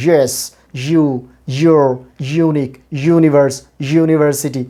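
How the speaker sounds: yes, you, your, unique, universe, university with buzzing y; slow word list, strong y starting yes to university; consonant y. Shown as a demonstration. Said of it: "এভাবে".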